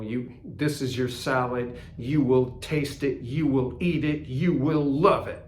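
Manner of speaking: lightly voiced German movie character giving orders; touch of German accent, mock commanding. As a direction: order them about in a hint of a German accent. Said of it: "first I was a German guy sounding like somebody in the movies giving order".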